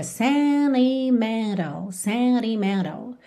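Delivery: sentimental said as senimental, both t's dropped; American sentimental; sentimental without t. Shown as a demonstration. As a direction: glide the n's together in sentimental. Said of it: "duas vezes N T".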